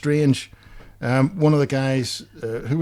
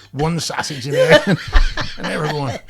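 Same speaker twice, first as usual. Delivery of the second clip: laughing; 3 semitones higher, 3 dB louder than usual. Real, not acted. Laughing at punchline.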